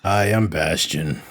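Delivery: slow, irritated delivery; annoyed. Retold or imitated. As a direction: say it with mild annoyance. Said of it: "with, like, a more annoyed voice".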